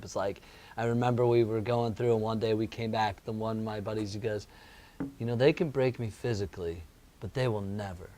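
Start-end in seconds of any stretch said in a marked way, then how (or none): 5.2-8.1 low, quiet imitation of a resolute buddy; retold solemn vow. Recalling a fraternity buddy's defiance, in low, quiet resolve. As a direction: say it low and softly, like a private vow.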